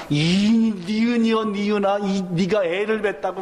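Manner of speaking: a hint of a furious mistress; mock scolding. Sarah berating Hagar.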